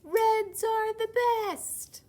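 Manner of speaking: high, loud bragging voice; puffed-up show-off shout; boastful red. Acted. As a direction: brag like a cocky little red. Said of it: "when a red said".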